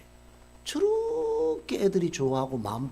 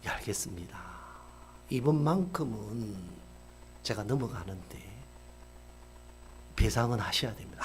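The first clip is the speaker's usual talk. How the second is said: subdued reply; 7 semitones lower, 7 dB quieter than usual. Retold or imitated. Owner relents quietly.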